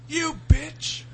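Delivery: high, loud mock cursing; frustrated outburst. Wrestler losing his cool mid-promo, frustrated mock outburst. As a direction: imitate a wrestler losing it, cracking up. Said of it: "he just gets frustrated halfway through".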